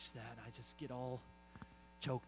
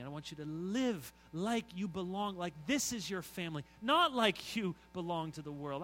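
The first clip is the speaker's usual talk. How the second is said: a hint of a firm loving Father, rising louder at "I chose you"; God speaking; 4 semitones higher, 5 dB louder than usual. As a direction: speak as the Father claiming his child. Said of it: "And so God says".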